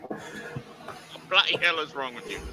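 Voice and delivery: hammed-up, unconvincing Scottish accent; clumsy mock-Scottish indignation; bad Scottish accent. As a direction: badly fake a Scottish accent. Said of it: "that's a very bad Scottish accent".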